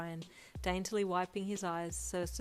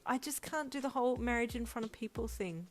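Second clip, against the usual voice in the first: quivering; 5 semitones higher than usual. A narrator's reading. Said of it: "bottom lip quivered".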